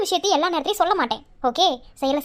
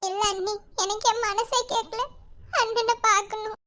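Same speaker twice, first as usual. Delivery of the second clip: crying softly; 3 semitones higher, slower than usual. Acted. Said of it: "அழாத".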